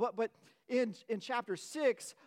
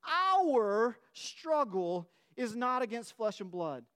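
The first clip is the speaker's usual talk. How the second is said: emphatic scripture; 3 dB louder, slower than usual. Shown as a demonstration. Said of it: "in verse twelve and says".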